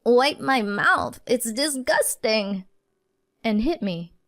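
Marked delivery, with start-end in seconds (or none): 0.0-2.6 complaining. Retold or imitated. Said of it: "she then complained".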